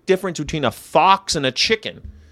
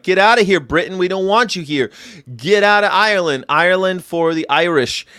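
mock shout; 5 semitones higher, 3 dB louder than usual. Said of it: "He was like".

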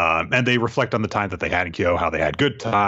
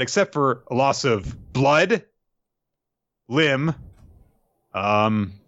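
usual speaking voice

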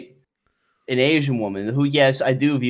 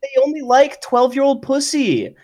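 high-pitched mocking valley-girl voice, much higher; mock girly voice; 14 semitones higher, 5 dB louder than usual. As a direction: put on a high airheaded girl voice to mock the take. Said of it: "a little more vocal fry".

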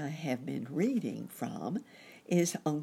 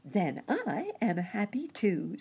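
chirping cricket voice; 5 semitones higher than usual. Acted. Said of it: "said the cricket".

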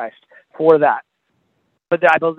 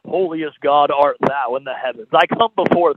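mock stiff prayer; slower than usual. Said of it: "Who talks like that?".

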